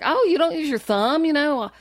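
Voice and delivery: high-pitched, naive quibbling; mock-innocent nitpick, pitched high; imitated nitpicking. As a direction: query your hero like a fussy pupil. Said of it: "nitpicking and asking him all these questions".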